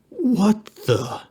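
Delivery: high, drawn-out dismay; slow, startled disbelief; alarmed grimace. A narrator's reading. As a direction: break off slowly in high-pitched alarm. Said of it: "the man grimaced".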